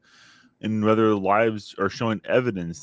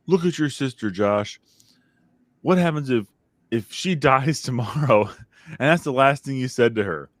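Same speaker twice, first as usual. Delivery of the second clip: scolding dad; 5 semitones higher than usual. Retold or imitated. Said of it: "my dad would always use".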